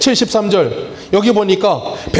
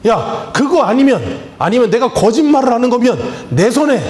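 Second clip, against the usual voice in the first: mildly acted indignant oath, pitched up; aggrieved protest; 6 semitones higher than usual. Preacher acting someone falsely accused swearing innocence, aggrieved protest. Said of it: "뭔가 억울한 일이 있을 때는".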